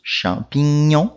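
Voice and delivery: slow "Champignon" with gn as Portuguese nh; "Champignon" pronounced the French way, slowly. Shown as a demonstration. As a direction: draw out "Champignon", nh sound before the nasal ending. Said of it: "Som do N H".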